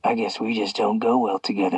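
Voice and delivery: quiet, venom-dripping taunt; low venomous hiss of a taunt. A narrator's reading. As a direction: sneer it softly, poisoned sweet. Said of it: "His voice dripped with venom".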